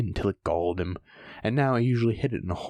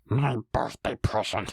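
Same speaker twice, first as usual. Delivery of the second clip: whispered to himself; slower than usual. Acted. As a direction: murmur it like a secret. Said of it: "he whispered to himself".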